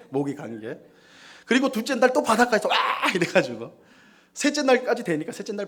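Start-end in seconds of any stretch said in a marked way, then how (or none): 2.7-2.8 a loud, high 와 of joy; excited beach shout; whoop. Retold or imitated.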